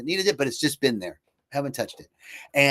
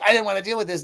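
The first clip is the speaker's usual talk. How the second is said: imitated higher-pitched complaint; retold pissed friend; 7 semitones higher, faster than usual. Retelling pissed friend on the trip, mock annoyance. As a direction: protest like an annoyed friend, mildly. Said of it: "My friend was pissed".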